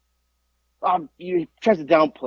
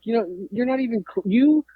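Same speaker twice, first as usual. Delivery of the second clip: mocking taunt; 5 semitones higher than usual. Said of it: "I'm like".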